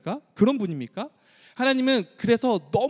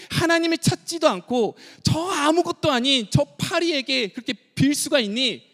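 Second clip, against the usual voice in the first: higher-pitched, grieving reproach; aching lament; 7 semitones higher than usual. Acted. God lamenting to his people, grieving reproach. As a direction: voice God's broken-hearted question. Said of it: "가슴이 막 찢어지면서 이렇게 한탄하며 말하고".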